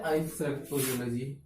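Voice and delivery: teacher slowly names the symbol while writing; slow explaining. Shown as a demonstration. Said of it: "बड़ी की मात्रा में क्या आता है?".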